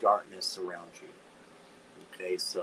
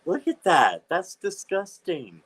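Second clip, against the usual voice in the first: real revulsion; 3 semitones higher, 4 dB louder than usual. Real, not acted. Sees possum in book.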